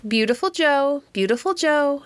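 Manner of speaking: high squawky parrot call; high parrot voice calling the dog's name. A narrator's reading. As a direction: chirp it like a talking parrot. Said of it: "Presently I heard again".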